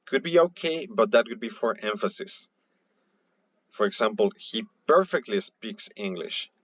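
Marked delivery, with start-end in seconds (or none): 4.4-6.5 "perfectly" lifted in pitch and drawn out; stress on perfectly. Shown as a demonstration. Teacher showing students an emphatic word order, stress on "perfectly". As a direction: put the emphasis on "perfectly", at a slow pace. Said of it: "we even emphasize the word perfectly".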